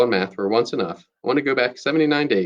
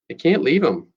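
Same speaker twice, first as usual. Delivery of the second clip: shouting; 4 semitones higher than usual. Acted. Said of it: "I shout".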